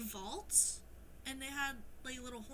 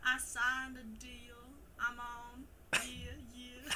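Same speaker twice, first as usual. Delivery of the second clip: put-on slow lyrics in a southern accent; slower than usual. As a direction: read it like a southern cowboy. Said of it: "Read the song lyrics in your southern accent".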